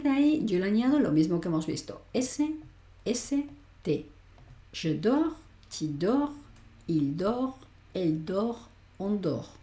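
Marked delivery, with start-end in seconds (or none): 4.7-9.5 dors and dort both said dor; silent final S and T. Shown as a demonstration. Teacher drills students: dors and dort without final S or T. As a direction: end every dors and dort on the R. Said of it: "esos finales y tes finales no se pronuncian".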